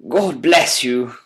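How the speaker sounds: slow, heartfelt thanks; passionate. A narrator's reading. The prisoner thanking Holmes, slow and heartfelt. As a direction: pour out gratitude. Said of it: "cried the prisoner passionately".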